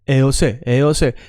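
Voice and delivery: "eos" said as one connected glide; linked, good-sounding. Shown as a demonstration. Teacher showing students how to sound good, vowels linked. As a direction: run the vowels of "eos" smoothly together. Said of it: "I want you to sound good".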